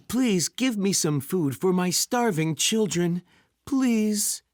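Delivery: humble, halting plea; pleading. Acted. Poor father begging food for his children, pleading. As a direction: beg for food, drawing out the please.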